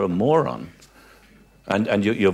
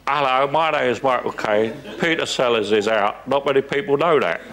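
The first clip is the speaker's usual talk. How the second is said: lightly voiced Caine impression. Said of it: "then he did that voice".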